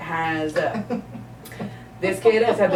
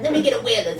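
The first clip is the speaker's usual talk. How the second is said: lightly voiced stoner, a bit higher and laughing; 5 semitones higher, faster than usual. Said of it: "High-pitched voice and everything".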